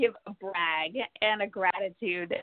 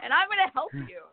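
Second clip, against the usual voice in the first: excited friend; 8 semitones higher than usual. Retold or imitated. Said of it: "the next thing she says".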